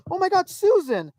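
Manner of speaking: high-pitched blurt of recognition; instinctive yell. Retold or imitated. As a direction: cry out as if spotting someone unexpectedly. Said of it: "I just instinctively yelled".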